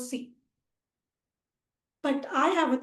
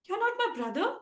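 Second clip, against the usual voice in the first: hushed taunt; 6 semitones higher, 6 dB quieter, faster than usual. Acted. Taunt in an acted sibling chase.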